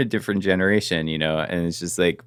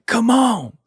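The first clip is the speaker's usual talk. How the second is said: high mock taunt, a bit louder; retold challenge; 13 semitones higher, 3 dB louder than usual. Attacker daring anyone to fight, high mock taunt. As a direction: imitate him goading people to fight. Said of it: "just starts yelling at everyone".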